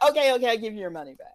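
rapid-fire surrender; flustered manager giving in. Retold or imitated. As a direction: give in hastily. Manager giving in to angry crowd.

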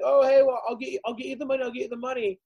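fob them off with a fake smile; imitating the tour manager dodging the debt; mock evasive tour manager. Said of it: "trying to be like".

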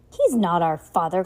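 loud, sharp denial; shout. Acted. Klaus shouting at Mister Poe about the villain, loud. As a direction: throw the words at him. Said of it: "Klaus shouted".

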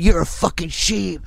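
high-pitched mock scorn; angry insult. Customer at car insulting narrator, mock angry. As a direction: imitate an irate man name-calling.

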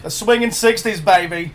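put-on loud, hammy British accent; swinging sixties Austin Powers style British accent. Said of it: "I can't do a British accent".

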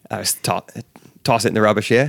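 amateur Australian accent, questioning lift at the end. Shown as a demonstration. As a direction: try a casual Australian turn of phrase. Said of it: "How is your Australian accent?".

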